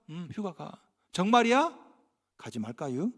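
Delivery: Chungcheong drawl. Retold or imitated. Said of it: "이렇게 말하고 있더라고요".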